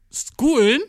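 a startled "Schoolen?" realising the wrong word; surprised self-correction. Real, not acted. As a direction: catch your own slip, asking "Schoolen?" in surprise.

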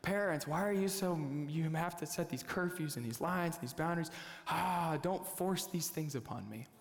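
lightly hammed-up teen complaint; exasperated teenager. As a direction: protest like a put-upon teenager, with a sigh. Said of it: "As teenagers".

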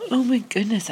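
high exclamation, then whispered mid-yawn. Real, not acted. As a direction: speak while yawning, half whispered. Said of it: "I'm sorry I keep yawning".

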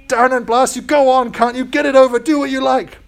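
loud, high furious bellow. Acted. Ghost bellowing at the angel to get it over with. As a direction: roar it out in rage. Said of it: "bellowed the ghost".

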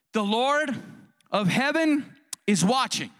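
"the Lord" set apart by pauses, then "of heaven is watching"; emphatic pauses. Real, not acted. Preacher warns congregation, "the Lord" and "of heaven is watching" in emphatic, separated phrases. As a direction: break before and after "the Lord", weighting each phrase. Preacher delivers climactic quoted warning.

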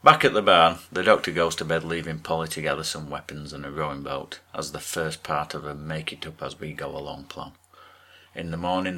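brisk read-aloud plot summary; scripted recap narration. Acted. Podcaster recapping an episode's plot for listeners, scripted narration.

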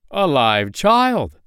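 loud, high, drawn-out astonishment; big storybook gasp of discovery in words; amazed. A narrator's reading. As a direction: exclaim it slowly in amazement. Man finds a child inside.

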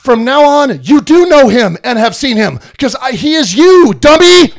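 mildly irritated teacher-Jesus; exasperated Jesus. Retold or imitated. Exasperated Jesus scolding disciples.

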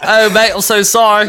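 put-on high, laughing British accent; hammed-up British apology through laughter; mock British. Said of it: "Is he British?".

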